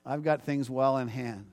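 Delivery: God speaking gently. Acted. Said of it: "Because God says".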